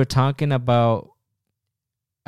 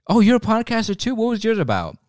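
mock chummy voice; 11 semitones higher than usual. Legionnaire asks fellow recruit.

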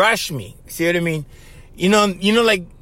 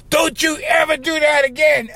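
much higher retold yell; 9 semitones higher than usual. Friend yelling at him for turning his back. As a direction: bark the warning like a scolding friend. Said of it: "Now he starts yelling at me".

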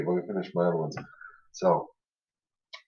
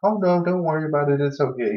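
retold nurse; 7 semitones higher than usual. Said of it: "She's like".

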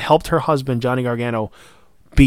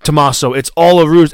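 louder, urgent warning to a wrestler; pleading yell at the screen; 6 dB louder than usual. Retold or imitated. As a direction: shout advice at the TV. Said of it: "And I'm like".

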